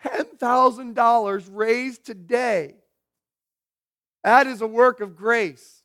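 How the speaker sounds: slow, loud proud pastor's announcement. Retold or imitated. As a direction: announce the total like a triumph. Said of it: "and I say".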